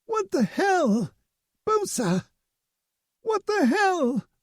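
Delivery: very high panicked cries; panicked shriek. A narrator's reading. Invisible woman panicking to her mate, high shriek.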